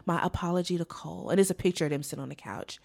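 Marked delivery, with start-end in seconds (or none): 0.1-1.3 mock apology. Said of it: "she was basically like".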